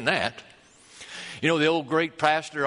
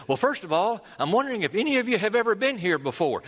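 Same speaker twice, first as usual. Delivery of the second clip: quoted British guide; 6 semitones higher, faster than usual. Retold or imitated. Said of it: "the British guide said".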